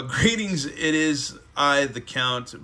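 hint of a grand vampire announcing himself; the Count from Sesame Street greets the reader, lightly voiced. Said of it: "It's all".

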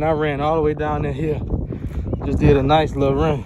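winded after a run; breathing hard between words. Real, not acted. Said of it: "I'm out of breath".

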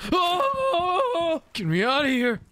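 high, loud panicked yell; panicked shout. Real, not acted. Player fleeing the skeletons, yelling high and loud. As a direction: scream to get out.

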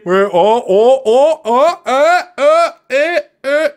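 rising string of high, loud ohs; mock excitement. Streamer pretending a network is calling, mock excited.

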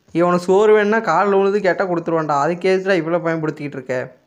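playful annoyed rant; mock exasperation. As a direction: tell off the baby, fed up. Scolding the baby.

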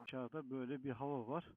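muffled under a helmet visor. Real, not acted. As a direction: speak from inside the helmet. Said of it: "kaskın içinden konuşuyorum".

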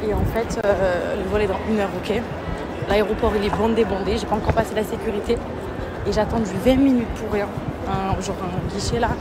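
out of breath, rushing; talking while hurrying through airport; while running. Real, not acted. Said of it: "Je suis en train de courir dans tout l'aéroport".

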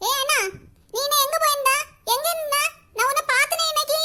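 loud, high, needling sister; teasing taunt. Acted. Sister taunting her brother about the girl, loud and teasing. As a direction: catch him out and rub it in.

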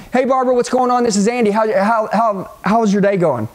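casual, comfortable greeting; easy, familiar phone hello; calling your buddy. Shown as a demonstration. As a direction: open like a call to a friend. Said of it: "like you were calling your buddy".

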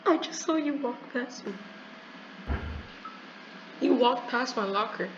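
high, soft, fearful voice; scared hiding. Real, not acted. Player hiding in a locker from a friend, scared and hushed. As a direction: keep it small and high so as not to be found.

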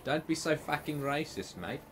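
mock-indignant South African; playfully offended South African voice; mock South African accent. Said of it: "I'm clearly from South Africa".

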